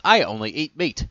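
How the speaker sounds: loud, insistent demand. Acted. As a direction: insist loudly. Alex demands food.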